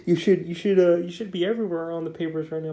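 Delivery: hammed-up worried gush; freaking out. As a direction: act out a flustered agent fussing over his client. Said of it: "celebrity agent's all freaking out".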